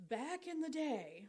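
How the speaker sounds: put-on slow, creaky old-lady voice; grandma voice. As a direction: talk like a little old grandma. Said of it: "Such grandma voice".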